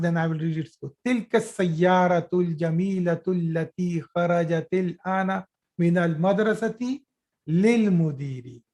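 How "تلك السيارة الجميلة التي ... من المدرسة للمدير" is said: quick, run-on reading of the Arabic sentence; fast reading demo. Shown as a demonstration. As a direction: rattle the sentence off at speed. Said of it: "I will read it fast".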